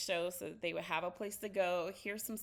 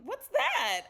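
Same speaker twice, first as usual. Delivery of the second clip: put-on toddler voice; 12 semitones higher, 8 dB louder than usual. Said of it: "she's like".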